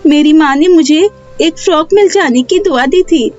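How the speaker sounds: put-on high child voice, explaining openly; innocent young girl. Neha tells Pinky about the magic cake, innocent high child voice.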